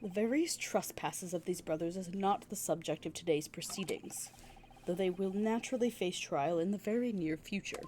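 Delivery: low, measured judge voice; formal judge. Acted. Judge addresses the court and the witnesses, formal. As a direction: rule over the courtroom gravely.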